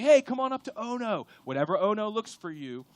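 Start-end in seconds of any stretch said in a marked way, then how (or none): 0.0-1.3 lightly voiced enemy, coaxing, a bit higher and louder; a hint of a tempter. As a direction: coax them up like a sly tempter. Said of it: "He's like".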